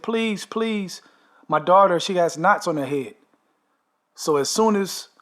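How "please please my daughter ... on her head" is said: high, urgent plea that swells on daughter; imitated pleading. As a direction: act out the wife's frantic plea. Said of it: "And she said".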